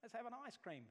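syrupy sarcasm before the threat; sarcastic fake sweetness. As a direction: sneer it out as a too-nice older brother. Mocking a brother's fake niceness.

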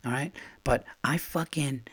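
unvoiced angry whisper. Real, not acted. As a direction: spit it out under your breath. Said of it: "I have to whisper this".

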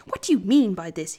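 loud, angry demand; shouting. Acted. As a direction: shout it at the devil. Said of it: "he shouted".

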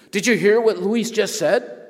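high and loud call to the hall; calling to the crowd. Retold or imitated. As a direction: rouse five hundred students. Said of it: "he says".

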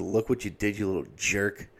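mock sneer.

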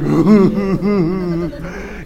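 imitated kid's tearful whine; mock whimper. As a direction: whimper like a scolded kid. Scolded kid whimpers going back.

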